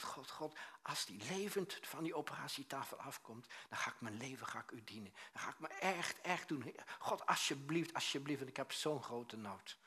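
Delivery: a re-enacted waiting-room plea, starting hushed; retold desperate prayer. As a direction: plead with God, rising on the promise. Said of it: "in die wachtkamer gebeden". (smekend gebed naspelen)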